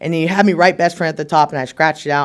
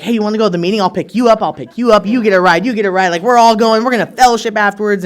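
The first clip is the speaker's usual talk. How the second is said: lightly voiced, raised-energy keen recruiter; eager AA nerd; 3 semitones higher, 4 dB louder than usual. AA nerd rounding up newcomers for a meeting, eager. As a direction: play up the over-keen meeting organizer a little. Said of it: "the A A nerd that's like".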